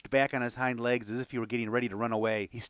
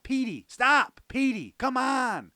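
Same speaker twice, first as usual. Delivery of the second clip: high, loud yell at a runaway dog; exasperated yell; 12 semitones higher, 5 dB louder, slower than usual. A narrator's reading. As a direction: call after him, fed up. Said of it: "I yelled, exasperated".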